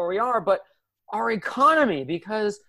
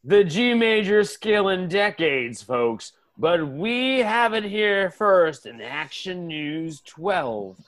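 TV anchor read; news anchor; 3 semitones lower, slower than usual. Acted. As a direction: deliver it like live TV news.

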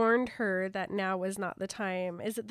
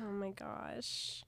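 whisper; 4 semitones lower, 14 dB quieter, slower than usual. Real, not acted. Reacting to Jacob's sad reply.

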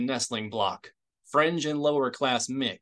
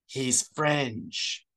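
flatly. A narrator's reading. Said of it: "Isard said flatly".

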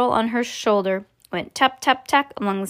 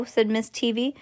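ordinary delivery, nothing marked

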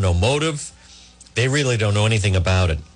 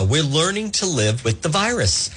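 imitating Raimondo; 3 semitones higher than usual. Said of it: "Who does that sound like?".

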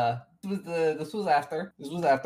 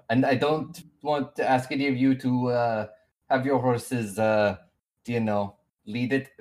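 lightly voiced accented NPC, a bit flustered. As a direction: introduce your party in the NPC's accent.

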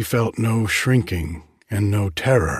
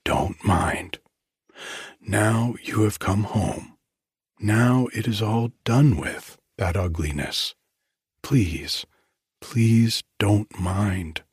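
tender whisper. Acted. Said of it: "she whispered to him".

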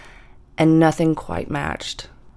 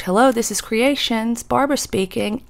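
higher, bright shop-phone greeting; mom answering the shop phone; 7 semitones higher than usual. Retold or imitated. Mother picking up at her flower shop, a lightly voiced cheery greeting. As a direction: answer the phone like a florist at work. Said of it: "finally she answers".

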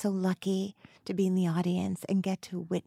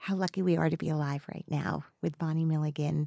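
heartfelt tribute; 2 semitones lower, 4 dB quieter than usual. Real, not acted. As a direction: speak softly, moved and sincere. Heartfelt tribute to her guest.

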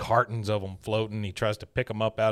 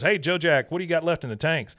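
mock shout; 6 semitones higher than usual. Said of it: "he shouts to the back".

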